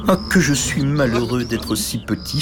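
slow, sighing; sighing lament. Acted. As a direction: sigh out your misery. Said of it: "soupirait-il". (soupir plaintif, lent)

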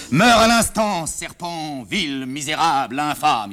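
put-on a young man ranting a tragedy at his mother; mock tragic fury. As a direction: hurl a stage curse at the villain. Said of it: "papa, je répète".

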